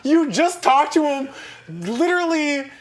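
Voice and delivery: high, slow, laughing disbelief; laughing outrage. Real, not acted. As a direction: stretch it out through laughter.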